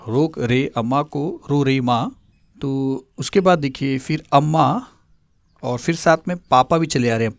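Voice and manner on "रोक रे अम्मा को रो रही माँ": slow mnemonic. Shown as a demonstration. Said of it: "mnemonic repeated slowly".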